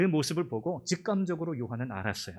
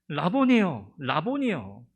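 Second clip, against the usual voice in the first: louder, overjoyed cry; joyful recognition; 5 dB louder, much slower than usual. Acted. Mary recognizes risen Jesus and cries out joyfully. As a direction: call out to the teacher in joy.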